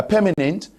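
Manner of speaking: "permanent" with a neutral first vowel, no r; Cameroonian pronunciation. Shown as a demonstration. Panelist showing how Cameroon says it, Cameroonian pronunciation of "permanent". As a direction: say "permanent" as PUH-muh-nunt. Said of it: "here in Cameroon, we are going to say".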